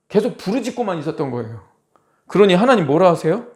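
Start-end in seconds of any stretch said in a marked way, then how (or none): none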